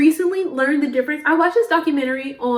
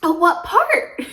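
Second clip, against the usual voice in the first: higher-pitched curious cashier; cashier's question; 6 semitones higher, slower than usual. Retold or imitated. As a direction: lightly imitate an interested stranger. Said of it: "the guy was like".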